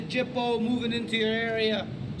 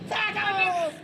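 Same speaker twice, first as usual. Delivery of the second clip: very high-pitched, threatening Scouser; over-the-top Liverpool accent, pitched way up; exaggerated Scouse; 9 semitones higher, 3 dB louder than usual. Shown as a demonstration. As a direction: squeal out menacing Liverpool slang. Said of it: "like a Scouser, exaggerated version".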